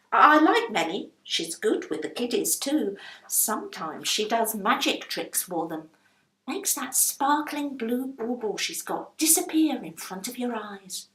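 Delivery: a hint of affection for the lodger; chatty and warm; fond landlady.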